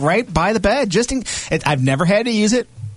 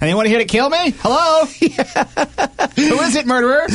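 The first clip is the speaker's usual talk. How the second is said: calling out; 9 semitones higher than usual. Retold or imitated. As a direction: call out to the intruder. Calling out to an intruder.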